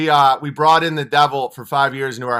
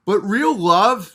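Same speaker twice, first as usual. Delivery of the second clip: ordinary talk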